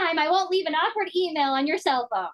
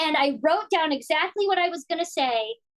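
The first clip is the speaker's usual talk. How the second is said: ordinary talk, nothing marked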